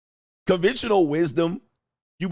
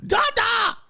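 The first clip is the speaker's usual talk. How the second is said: put-on excited baby; much slower than usual. Toddler hearing the garage open, squealing for dad. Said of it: "the baby going crazy".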